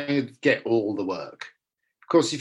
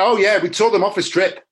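higher, louder mock-proud agent; imitating his agent; 6 semitones higher, 7 dB louder than usual. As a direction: boast it like the agent reporting back. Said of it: "my new agent was the one that said all that".

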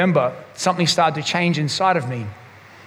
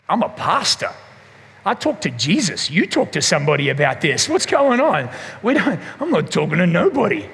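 mock defiance. Mock-defiant refusal to his wife.

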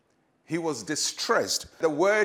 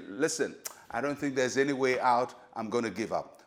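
lower, softening as it ends; mock resignation; 4 semitones lower than usual. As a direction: let the voice sink as if giving up. Acting someone who gives up.

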